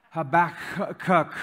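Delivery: slow hacking cat noise on HABAKKUK; cat coughing up furball. Acted. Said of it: "every time my cat coughs up a fur ball".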